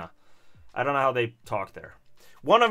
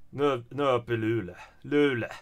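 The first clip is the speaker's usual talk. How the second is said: a lightly voiced Norrbotten Swedish, low and softer; Luleå dialect; 4 semitones lower, 4 dB quieter than usual. Shown as a demonstration. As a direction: put on a far-north Luleå accent. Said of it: "How, how do you speak up in Luleå?".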